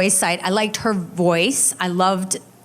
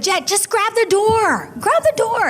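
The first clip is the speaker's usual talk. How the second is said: put-on old lady voice; 12 semitones higher than usual. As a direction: call out like a frail granny. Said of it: "like, an old lady voice".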